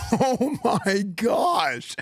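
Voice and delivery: laughing. Real, not acted. Player reacting to a wild play.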